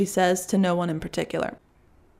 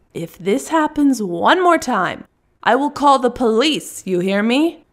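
louder, higher and slow, leaning on call; angry threat; 4 semitones higher, 4 dB louder, slower than usual. Acted. Russian woman threatening the delivery man with the police. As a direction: threaten him so he backs off.

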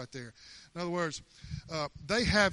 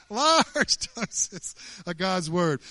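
"Large doses of God's word" stretched very slowly, each word drawn out; 7 dB louder, much slower than usual. Shown as a demonstration. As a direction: savour every word slowly.

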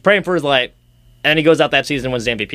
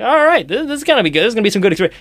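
high, eager hopeful voice; mock excitement; 6 semitones higher, much faster than usual. Hyped about the captain heading to World Juniors, eager and high. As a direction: sound hyped about the news. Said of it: "I'm like".

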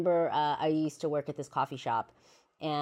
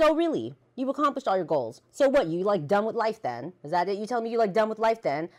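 sarcastic high retort; 6 semitones higher, 6 dB louder than usual. Retold or imitated. Retold mocking retort to boyfriend.

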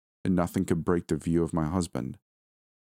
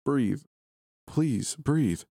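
much higher, begging him to breathe; desperate plea; 9 semitones higher, much slower than usual. A narrator's reading. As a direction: plead with rising desperation. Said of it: "I pleaded".

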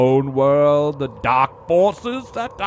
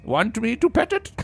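put-on old prospector voice; 11 semitones higher than usual. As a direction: play the creaky old prospector. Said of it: "that's old prospector voice".

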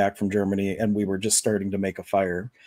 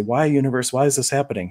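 whiny why; 4 semitones higher than usual. Retold or imitated. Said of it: "You say".

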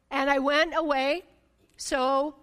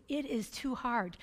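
defeated sigh; 6 dB quieter than usual. Shown as a demonstration. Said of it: "you know you're doing it in your flesh when you say that".

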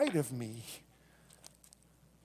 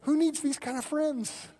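sarcastic retold quip; 9 semitones higher, 4 dB louder than usual. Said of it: "I was like".

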